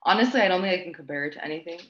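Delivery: quick, rushed repeat; fast. Real, not acted. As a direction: say it quickly, honestly. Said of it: "repeats the phrase".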